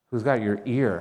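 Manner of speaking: "ear" landed on at the end; stress on ear. Shown as a demonstration. Preacher asks whether you are following them, stress on ear. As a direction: save the weight for "ear". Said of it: "A different emphasis on different words".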